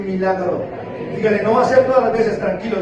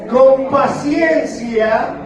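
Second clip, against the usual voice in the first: stretched-out reading; 3 semitones higher, 4 dB louder, much slower than usual. Shown as a demonstration.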